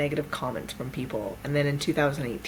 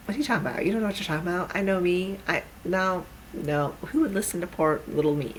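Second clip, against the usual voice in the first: higher-pitched mock self-doubt; doubtful protest; 4 semitones higher, faster than usual. Teller arguing back at the universe, mock protesting. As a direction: brush the voice off in disbelief.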